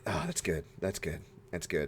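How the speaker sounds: put-on low, soft old man mutter. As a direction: mumble approvingly like an old man. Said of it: "as an old man, I'm always like".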